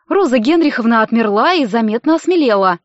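ordinary delivery, nothing marked

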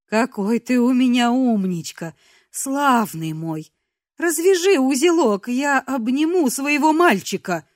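sweet mother voice. Acted. Captive girl pretending to be his mother, cooing. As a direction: coo like a doting mother.

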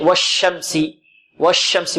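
والشمس with the sh hissing and spread out; spreading sheen. Shown as a demonstration. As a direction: let the doubled ش in والشمس spread. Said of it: "التفشي".

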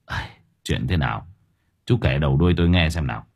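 a lightly voiced old village head; amused doubting elder.

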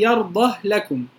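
يرضه with a still ه; sukun reading. Shown as a demonstration. Teacher shows the sukun reading, يرضه ending on still ه. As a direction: say يرضه لكم with no vowel on the ه. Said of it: "يقرؤون بالسكون قولا واحدا".

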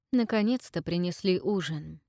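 ordinary delivery, nothing marked

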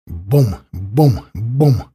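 short booming gunshot imitation; imitated gunfire booms. A narrator's reading. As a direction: voice each shot as a separate boom. Narrator imitates gun reports.

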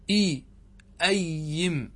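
إي then أيم, slowly split; teacher sounding out the example; syllable by syllable. Shown as a demonstration. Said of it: "نحو".

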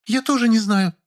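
high female character voice, whiny; Lilya, petulant. A narrator's reading. Lilya pleading with the narrator, high and petulant. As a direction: play the pouting woman, pitched high.

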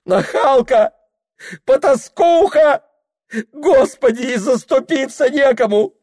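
very high, loud shrieking abuse; shrill screaming. Acted. Mistress screaming at Anfisa, helpless fury.

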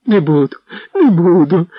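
high, loud wailing; a caught man crying and begging on the floor; crying plea. A narrator's reading. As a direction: wail it through tears. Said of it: "плакав".

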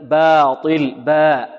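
باطل with the first alif kept thin and light; باء drawn out, light and unthickened. Shown as a demonstration. Teacher showing students a light alif after a light letter, careful demo. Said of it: "ترقق".

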